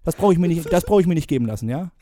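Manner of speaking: hammed-up Bohlen rant; mock scolding judge. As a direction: tear into the candidate.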